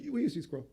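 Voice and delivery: "We used to eat squirrel" falling, unbothered; just a fact; flat statement. Retold or imitated. Coworker unfazed, calm flat statement. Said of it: "The fact is".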